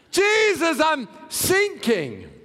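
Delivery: high, panicked cry that slows as it sinks; a believer crying out to Jesus while sinking; desperate cry. Acted. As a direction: call out like you're going under. Voicing a drowning believer.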